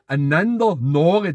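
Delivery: einander Nore said slowly with stress on einander. Shown as a demonstration. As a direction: draw out einander Nore, leaning on einander. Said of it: "weil machen wir einander Nore".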